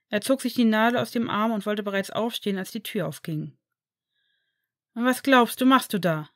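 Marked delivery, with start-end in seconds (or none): 5.0-6.3 sharp, louder rebuke; scolding outburst. Acted. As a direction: stop him mid-move, loudly. Draco catches Harry getting up.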